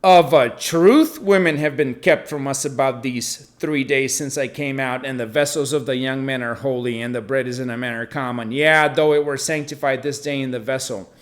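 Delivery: firm, insistent reading; emphatic David. Acted. David insisting to the priest, emphatic. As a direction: press the words like a plea. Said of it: "he's emphatic".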